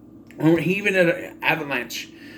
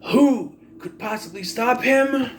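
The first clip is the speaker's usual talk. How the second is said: mock wail, building higher and drawn out; imitated screaming fan; 4 semitones higher, slower than usual. Viewer despairing at the champion's win, imitated screaming. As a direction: plead theatrically as a despairing fan. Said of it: "just as you're screaming".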